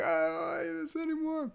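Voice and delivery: imitating a toddler about to bawl; half-hearted mock whine, high; whiny upset toddler. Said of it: "you just started bawling".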